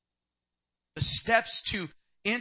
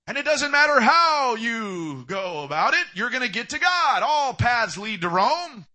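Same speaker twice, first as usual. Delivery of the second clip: slow, louder mocking of the all-paths view; hammed-up scoffing, louder; mock dismissive voice; 4 dB louder, slower than usual. Preacher mimicking the culture to the congregation, mock scoffing.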